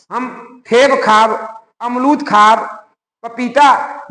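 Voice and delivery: put-on slow, childish babbling words; mock toddler speech. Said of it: "शुद्ध भाषा में नहीं बोल पाता है".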